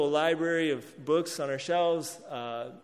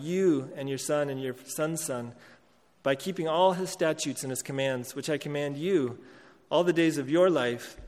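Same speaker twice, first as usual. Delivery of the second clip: measured, solemn Bible reading to the congregation; scripture reading. Acted. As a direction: read the passage as a preacher would from the pulpit. Pastor reads Deuteronomy passage aloud.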